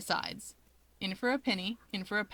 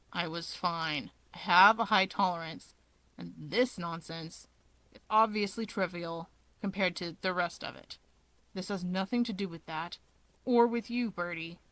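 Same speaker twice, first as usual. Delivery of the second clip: low grumbling Dabi; 3 semitones lower than usual. Acted. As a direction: grumble it down low, dragging the words.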